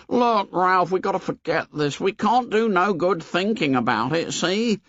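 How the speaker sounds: put-on high, urging boy voice; high pleading Piggy; anxious boy. A narrator's reading. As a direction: coax him to forget. Piggy persuading.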